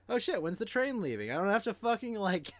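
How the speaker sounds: delighted traveler thinking aloud; relieved excitement. Retold or imitated. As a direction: gush with a laugh breaking in. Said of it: "It's like".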